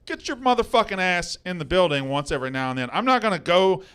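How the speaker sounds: scolding a cohost who never shows up; angry rant. Real, not acted. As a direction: tear into him, building as you go.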